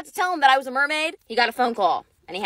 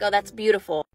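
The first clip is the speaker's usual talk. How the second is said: low, impressed guy voice; 8 semitones lower, 3 dB quieter than usual. Retold or imitated. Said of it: "He's like".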